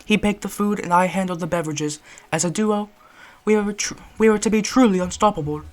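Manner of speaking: proud British gentleman; boastful British reminiscing; British accent. Acted. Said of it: "British accent for this one".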